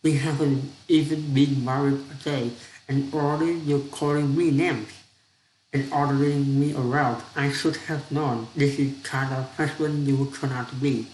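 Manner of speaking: indignant wife. Acted. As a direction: tell him off, hurt pride. Wife scolds husband in quarrel.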